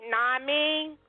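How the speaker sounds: mock lazy "Nah, I mean" tossed off high; imitating a careless job applicant; sloppy slang. Mocking a sloppy interviewee, lightly voiced. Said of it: "that's not a word".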